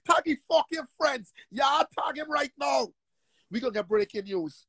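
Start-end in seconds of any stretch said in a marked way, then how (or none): 0.1-2.9 shouted order. Real, not acted. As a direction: bark the order at your followers. Ordering followers to attack critic.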